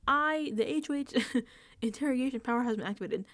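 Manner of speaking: mock-formal card reading, slowing at the end; reluctant card reader. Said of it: "he's reading this like".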